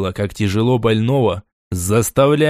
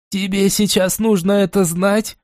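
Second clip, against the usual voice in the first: snapping angrily; 7 semitones higher than usual. A narrator's reading. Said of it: "вызверилась на меня Поляна".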